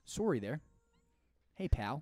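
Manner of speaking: mock-polite Canadian; friendly Canadian apology to a pal; Canadian accent. Riffing with a cohost, Canadian accent. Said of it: "leftover Canadian".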